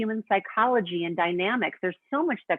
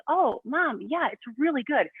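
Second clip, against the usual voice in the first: startled son; 6 semitones higher than usual. Retold or imitated. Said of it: "he was really startled".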